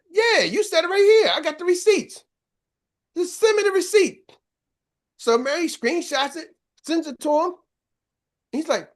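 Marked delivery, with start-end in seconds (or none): 0.1-4.3 high-pitched, insistent imitated comeback; mock argument. Two colleagues arguing over text receipts, mock insistence. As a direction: act out a heated back-and-forth over proof. Acted quarrel over who said it.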